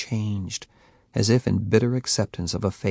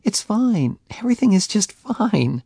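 unconvincing; 12 semitones higher, 5 dB louder than usual. A narrator's reading. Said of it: "she said unconvincingly".

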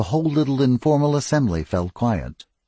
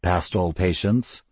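low, slow and sardonic; 3 semitones lower, slower than usual. Acted. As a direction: drawl it with dry scorn. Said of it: "in a low, sardonic voice".

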